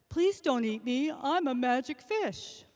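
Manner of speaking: a pleading fish, lightly voiced; magic fish voice. Talking fish voiced in story.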